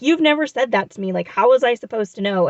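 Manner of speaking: mock-bratty comeback, half-hearted; retold bratty snap at a regular, lightly acted; aggressive and bratty. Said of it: "more aggressive and bratty about it".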